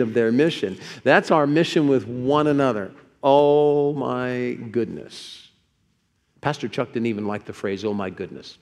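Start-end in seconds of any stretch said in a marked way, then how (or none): 3.2-5.5 very slow, each word stretched; drawn-out exclamation. Real, not acted. Preacher reacting to the mission of loving one another, drawn-out exclamation. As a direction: draw out "Oh my" at length.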